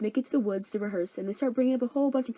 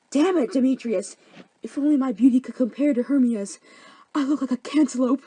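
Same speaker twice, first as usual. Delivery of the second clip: whiny Helena; 5 semitones higher, 6 dB louder than usual. Acted. Helena laments, loud high.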